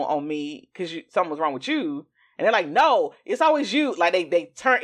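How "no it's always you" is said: high, emphatic imitated protest; mock defensive denial. Voicing a narcissist turning it around, defensive. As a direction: throw the blame straight back. Acts out narcissist deflecting blame.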